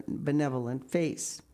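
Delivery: usual speaking voice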